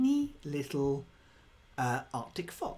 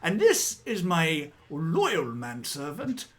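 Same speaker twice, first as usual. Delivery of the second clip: a lightly raised grand noble voice; pompous walrus lord; 3 semitones higher than usual. Acted. Walrus presenting his fox servant, mildly grand. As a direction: introduce your servant with pride.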